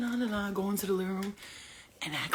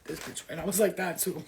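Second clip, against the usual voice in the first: ordinary delivery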